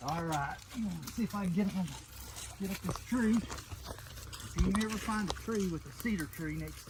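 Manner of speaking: straining while climbing. Real, not acted. Talking while climbing a tree.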